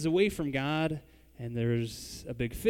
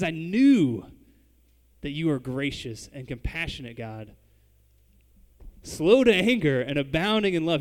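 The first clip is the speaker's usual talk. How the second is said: bitter sarcasm, loud on the ends; sarcastic angry; 6 dB louder than usual. Retold or imitated. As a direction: spit the praise back as a complaint. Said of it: "how sarcastic or angry he is when he says it".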